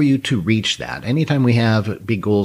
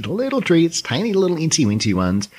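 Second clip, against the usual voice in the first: cutesy; 7 semitones higher than usual. Shown as a demonstration. Cutesy description of treats.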